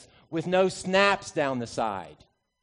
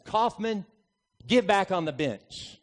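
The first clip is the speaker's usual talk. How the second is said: calmly; 4 semitones higher than usual. Retold or imitated. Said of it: "looks at me very calmly and says".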